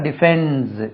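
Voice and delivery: டிஃபென்ஸ் ending in a voiced z, "di-FENDZ"; final Z sound. Shown as a demonstration. Teacher adding s to the verb, டிஃபென்ஸ் with a z ending. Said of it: "ஜெட் உச்சரிப்பு".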